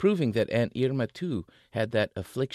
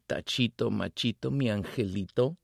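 flirty banter; 2 semitones higher than usual. Acted. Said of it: "flirting banter".

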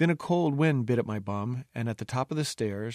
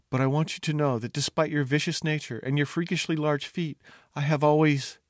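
mock dying words; 4 semitones higher than usual. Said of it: "and then I died".

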